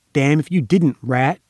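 snarling. A narrator's reading. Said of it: "a voice snarled at his side".

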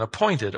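appointed set apart and lingered on; stress on appointed. Shown as a demonstration. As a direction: point back to appointed. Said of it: "same word again".

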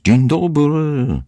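long, high, drawn-out call; high call into the house. A narrator's reading. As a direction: sing out the greeting, stretched and loud. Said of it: "wołając".

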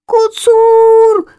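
high, loud panicked cry; terrified scream. Acted. Lazy chick spots the tomcat and screams in fear. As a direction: shriek the alarm. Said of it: "скричала Лінивка".

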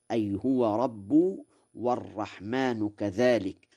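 ordinary talk

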